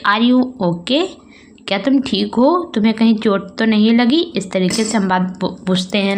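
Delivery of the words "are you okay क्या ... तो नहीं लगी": concerned asking. Shown as a demonstration. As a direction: ask a fallen child gently. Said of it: "तो हम पूछते हैं". (चिंता से पूछते हुए)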